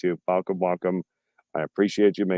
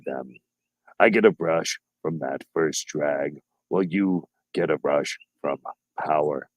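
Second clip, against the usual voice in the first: Boomer Bob voice. Retold or imitated. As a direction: read it like a grumbling out of touch boomer. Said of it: "I'll do it my best Boomer Bob voice".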